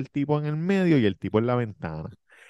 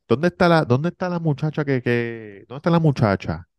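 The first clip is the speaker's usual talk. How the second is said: searching man; 5 semitones higher than usual. Retold or imitated.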